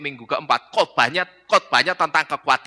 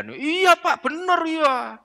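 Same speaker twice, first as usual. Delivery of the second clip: high, sharp Iya from an annoyed congregant; a touch of exasperated agreement; irritated yes; 13 semitones higher, much slower than usual. Acted. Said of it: "Sambil jengkel gitu". (jemaat menjawab dengan agak jengkel)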